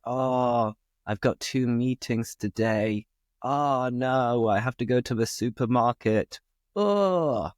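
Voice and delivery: lightly acted moan over something trivial; mock complaining. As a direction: complain with drawn-out groaning "oh"s. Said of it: "somebody is complaining about something".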